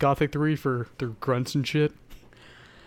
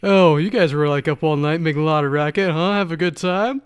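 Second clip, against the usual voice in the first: insinuating tease; 3 semitones higher, 5 dB louder than usual. Retold or imitated. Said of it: "It's like, straight up innuendo".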